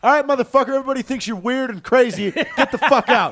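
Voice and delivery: high, loud, scolding teacher; angry teacher. Retold or imitated. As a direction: tell him off like a fed-up teacher. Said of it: "it was like".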